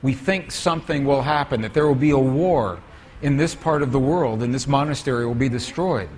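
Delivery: low, grave retold warning; lightly voiced solemn monk, pitched low; very serious monk. Monk warns visitors that war will destroy the monastery, very serious. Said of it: "the monk became very serious".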